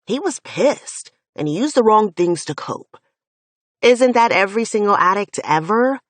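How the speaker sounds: loud, heated protest for a friend; angry defense. Acted. Finn angrily defends Jace.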